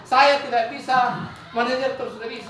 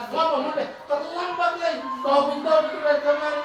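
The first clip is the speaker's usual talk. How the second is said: punishing teacher; 4 semitones higher than usual. Acted. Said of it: "Itu penghukum".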